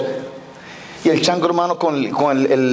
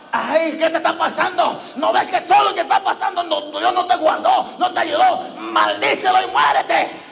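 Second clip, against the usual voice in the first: berating wife; 2 semitones higher, slower than usual. Acted. Wife berates suffering Job.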